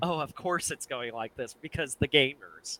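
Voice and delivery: mildly exasperated, drawn-out imitation. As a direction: imitate a weary blogger's exasperated complaint. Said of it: "coloring it in an exasperated kind of tone".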